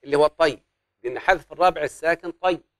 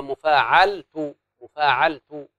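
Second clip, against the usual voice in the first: "مفاعلت" said slowly, then again; slow demonstration; slow scansion demo; much slower than usual. Shown as a demonstration. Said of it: "احذف النون".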